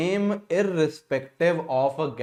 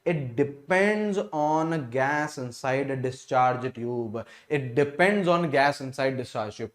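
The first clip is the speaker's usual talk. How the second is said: each word read out slowly for note-taking; slow dictation; 2 semitones lower, much slower than usual. Acted. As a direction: dicteer het langzaam en duidelijk.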